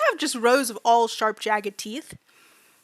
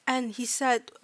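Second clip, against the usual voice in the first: hesitant non-native fairy voice; fairy student recounting mistreatment; 7 dB quieter than usual. Acted. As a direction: tell it simply, groping for each word. Fairy recounts being tricked.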